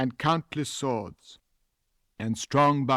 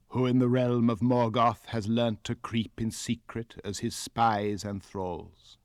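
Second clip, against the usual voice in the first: slow and grave. Acted. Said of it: "Thingol spoke slowly".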